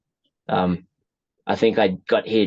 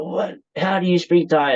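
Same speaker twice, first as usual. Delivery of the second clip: imitating surprise; 10 semitones higher than usual. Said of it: "just outright surprised".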